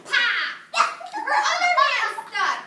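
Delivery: loud and laughing through it; high, loud, laughing read-aloud. Acted. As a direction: giggle while reading the stuck fairy. Fairy stuck, teller laughing.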